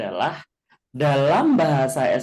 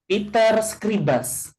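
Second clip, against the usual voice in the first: slow, careful reading of the Esperanto example; teacher reading an example at half speed; slow example sentence; 7 semitones higher, much slower than usual. Shown as a demonstration. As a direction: spell it out slowly for the class. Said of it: "Scribas tadi apa?".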